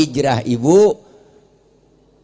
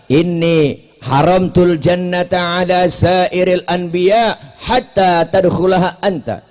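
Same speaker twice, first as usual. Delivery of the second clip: slow Arabic recitation; slower than usual. Acted. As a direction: chant the Arabic slowly and solemnly. Preacher reciting Arabic hadith.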